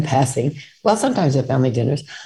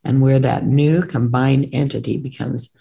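book reading. A narrator's reading. Reads passage from own book.

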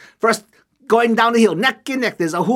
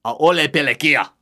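arrogant chief; 4 semitones lower than usual. Acted. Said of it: "oh, he's so arrogant".

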